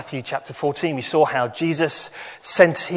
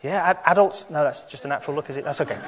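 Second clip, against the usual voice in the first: put-on animated storytelling for children; bright, bouncy children's presenter; kids show host; 4 semitones higher than usual. Leads children's talk with animation.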